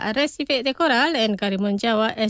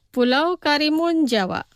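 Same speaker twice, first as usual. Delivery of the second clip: pronunciación despacio; 3 semitones higher than usual. Shown as a demonstration. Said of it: "Los pronunciaré despacio". (pronunciado despacio, para repetir)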